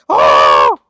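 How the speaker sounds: sudden loud realizing oh; surprised oh. Retold or imitated. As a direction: shout out a startled oh of realization. Realizing period caused mood.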